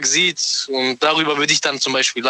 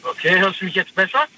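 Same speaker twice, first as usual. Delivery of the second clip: thin, distant phone-line sound; bluetooth headset mic. Real, not acted. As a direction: speak through a bad headset mic. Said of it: "ich hör dich schlecht".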